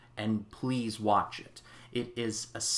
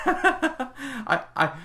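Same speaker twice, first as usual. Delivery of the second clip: much higher, louder, fast and stammering with joy; reformed Scrooge overjoyed, imitated with a stammering laugh; giddy Scrooge; 6 semitones higher, 5 dB louder than usual. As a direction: bubble over like a man who can't contain his happiness. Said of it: "Scrooge just like".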